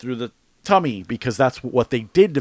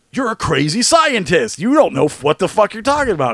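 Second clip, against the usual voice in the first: higher, scoffing mock villagers; mock townspeople; 7 semitones higher, 3 dB louder than usual. Host retelling townsfolk dismissing the scientist, higher and scoffing. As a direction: brush him off as a mock crowd. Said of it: "everyone's all like".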